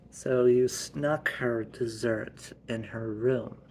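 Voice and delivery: deliberate, slow accusation; slow accusing. Acted. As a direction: lay it out slowly. Mom catching him out.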